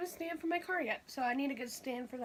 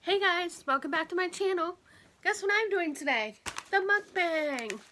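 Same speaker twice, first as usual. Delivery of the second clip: excited greeting; 5 semitones higher, 6 dB louder than usual. Real, not acted. Upbeat vlog channel intro.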